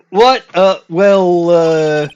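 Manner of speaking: put-on flustered Boston-ish accent. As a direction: caught off guard, in a Boston-ish voice. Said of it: "what kind of accent I'm trying to do for him".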